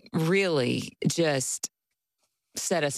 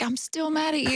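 mock-angry protest, much higher and laughing; laughing but angry; 12 semitones higher than usual. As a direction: scold him while laughing. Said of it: "I'm laughing, but I'm angry".

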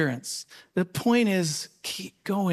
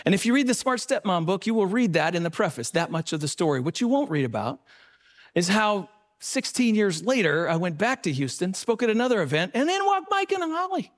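ordinary talk, nothing marked

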